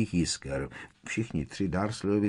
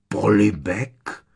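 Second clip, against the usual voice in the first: louder, drawn-out rising "Polibek?"; incredulous repetition; 2 semitones higher, 6 dB louder, much slower than usual. A narrator's reading. Uncle echoing nephew's odd word, incredulous. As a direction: stretch the word into a stunned question. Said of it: "opakoval strýc Vernon a oči mu povylezly z důlků".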